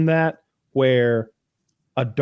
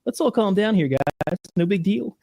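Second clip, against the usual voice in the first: higher, placating voice; rational stepdad; 7 semitones higher than usual. Retold or imitated. Stepdad trying to calm everybody, mock placating voice. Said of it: "except for the new stepdad, who's, like, rational".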